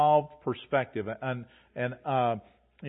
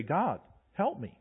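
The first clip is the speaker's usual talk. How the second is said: quiet prayer; 3 dB quieter than usual. Shown as a demonstration. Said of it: "I'm gonna look to heaven and say".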